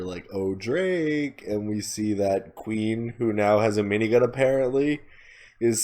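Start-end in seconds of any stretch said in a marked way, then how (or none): 0.3-1.4 high, lilting sing-song call. Retold or imitated. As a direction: call it out sing-songingly, teasing. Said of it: "kinda sing-songingly we hear".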